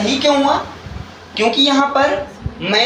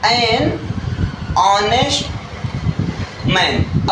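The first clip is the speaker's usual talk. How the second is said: slow dictation; much slower than usual. Shown as a demonstration. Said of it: "एक मैं लिख रहा हूँ".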